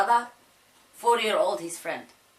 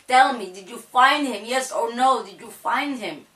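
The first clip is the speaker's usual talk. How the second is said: insistent demand; 4 semitones higher, 4 dB louder than usual. Retold or imitated. Demanding answer from police.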